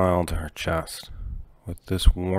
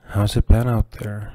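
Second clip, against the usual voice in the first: higher, louder anxious question; Jolene's voice; 4 semitones higher, 6 dB louder than usual. Acted. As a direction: ask it up high and tense. Jolene asks about the town.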